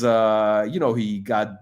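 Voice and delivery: ordinary talk, nothing marked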